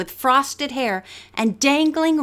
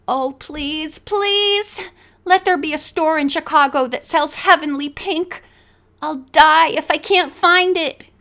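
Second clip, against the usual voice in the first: pleading; 4 semitones higher than usual. Acted. Bess pleads over nail polish.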